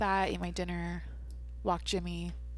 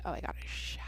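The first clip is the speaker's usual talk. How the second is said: whispered dread; 10 dB quieter, faster than usual. Retold or imitated. Exhausted podcaster remembering a late shower, whispered dread. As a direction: whisper the realisation to yourself, trailing away on "shower".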